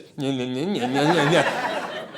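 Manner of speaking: imitated wordless teasing babble; mocking "nya-nya" noise. Big cop behind the yelling woman, mocking babble. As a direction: mimic someone making fun behind a back. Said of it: "standing behind her doing this".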